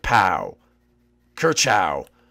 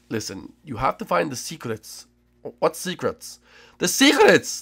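lightly voiced chef, mysterious; a hint of a knowing mentor; half-serious guide hinting at drama; Chef Mario voice; 4 dB quieter than usual.

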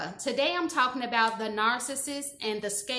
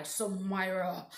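irritated name call; 3 semitones lower, 4 dB quieter, slower than usual. Retold or imitated. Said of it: "just pissed off".

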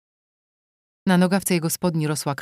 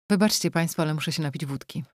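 lightly voiced shaken merchant; panting merchant. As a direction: gasp it out after the fright. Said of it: "dyszał kupiec".

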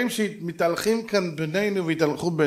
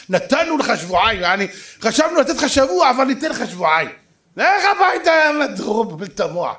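louder, contemptuous sneer; mock doctor; 5 dB louder than usual. Doctors brush off the dying father, loud sneering. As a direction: ham up a rude dismissive doctor.

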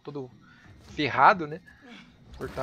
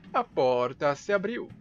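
drawn out slowly for effect; slow, deliberate repeat; slower than usual. Shown as a demonstration. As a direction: spell it out slowly, mock-amazed. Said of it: "repeated slowly".

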